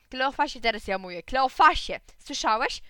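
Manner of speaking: loud, high call to a pupil; sharp call. Acted. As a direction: snap a name across the classroom. Teacher calling pupil. (nauczycielka głośno przywołuje ucznia do porządku)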